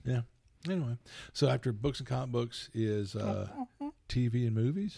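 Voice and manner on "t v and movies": whispering. Real, not acted. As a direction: whisper it like a secret. Whispered aside.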